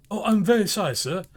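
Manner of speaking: a hint of a frightened clerk; nervous clerk. A narrator's reading. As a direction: plead as a timid clerk caught late. Bob's anxious apology.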